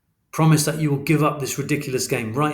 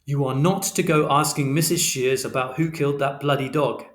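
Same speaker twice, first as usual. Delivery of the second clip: raised, hard, relentless fatherly lecture; stern final warning; 3 semitones higher than usual. Acted. Father forbidding Christopher from detective work, angry and firm. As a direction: hammer each order home, losing patience.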